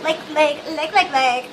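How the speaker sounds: put-on Valley girl filler likes; ditzy Valley girl voice. Shown as a demonstration. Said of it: "I sound like a Valley girl".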